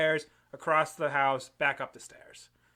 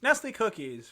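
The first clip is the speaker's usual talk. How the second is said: NESTLE COOKIES pitched up like a slogan; mock ad read; 3 semitones higher, 4 dB quieter than usual. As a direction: say Nestle Cookies as a pretend sponsor tagline. Repeats name as ad slogan.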